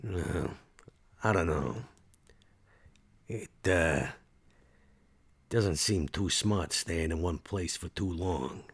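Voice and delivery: slow, halting in-character reply; hesitant Max. Acted. Max on staying in one place, hesitant. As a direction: weigh it up with long pauses.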